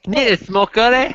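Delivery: slow rising question on "smoker嘞"; drawn-out question. Retold or imitated. Host mimics asking about a smoker, drawn out. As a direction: stretch out "smoker嘞" and lift the end. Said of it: "安尼".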